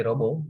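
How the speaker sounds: "robo" as ro-bo, final t dropped; Sri Lankan pronunciation. Shown as a demonstration. Teacher showing class the local way, Sri Lankan pronunciation. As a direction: say "robo" with two o vowels and no t. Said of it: "we say robo".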